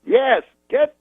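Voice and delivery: very high, slow, halting orders; high drawn-out comic mimicry; Bill Cosby. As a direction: instruct grandly, stretching the words. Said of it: "He goes".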